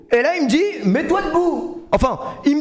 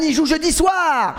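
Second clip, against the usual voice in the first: slow, higher drawn-out mock quote; a mild slow parody of Samantha; imitating Samantha slowly; 5 semitones higher, slower than usual. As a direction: echo her words, dragging them out. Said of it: "Samantha qui nous dit".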